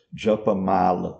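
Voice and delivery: "Japamala" as juh-puh-MAH-luh, short final A; Brazilian pronunciation. Retold or imitated. Teacher quotes how most Brazilians say it, short ending on "Japamala". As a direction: stress "ma" in "Japamala", ending reduced. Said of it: "a maior parte dos brasileiros fala".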